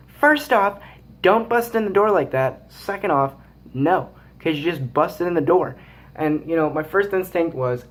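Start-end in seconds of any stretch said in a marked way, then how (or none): 0.1-5.8 higher, stern imitated mom; scolding mom. Son voices his mom scolding him, pitched up and stern. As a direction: lecture like an annoyed mother. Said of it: "And she was like".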